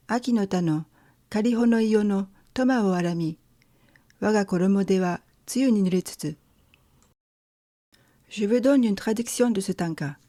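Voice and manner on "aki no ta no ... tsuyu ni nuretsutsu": poem recitation again. Shown as a demonstration. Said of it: "je vais lire le premier tanka".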